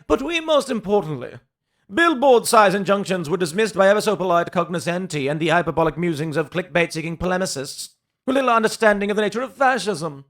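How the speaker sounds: sneering, hammed-up highbrow reading; mocking pompous read. Host mocking a pundit's column, sneering pompous read. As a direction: parody the pundit's fancy words with a sneer.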